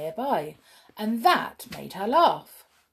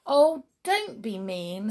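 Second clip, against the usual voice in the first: huffy little helper elf; 2 semitones higher than usual. Acted. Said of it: "said the brownie".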